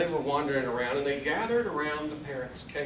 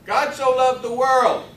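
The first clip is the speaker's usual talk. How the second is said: loud, high parrot voice; high parrot voice, drawn-out words; talking parrot; 7 semitones higher, 9 dB louder, slower than usual. Acted. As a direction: recite it loudly like a trained parrot. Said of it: "The parrot goes".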